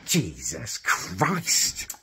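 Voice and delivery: exhausted disbelief; weary exasperation. Real, not acted. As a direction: drag it out in disgust.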